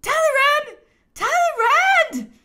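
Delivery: high, loud shout of a name; exclaimed call. A narrator's reading. Emperor calling for his missing minister, shouting. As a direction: call out for someone, drawing the name out. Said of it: "His Majesty exclaimed".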